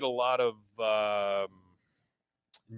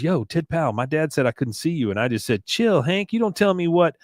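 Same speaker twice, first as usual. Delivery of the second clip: put-on higher cocky kid voice; lightly voiced bratty boy; a hint of a cocky kid; Bobby voice; 5 semitones higher than usual. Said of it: "He goes".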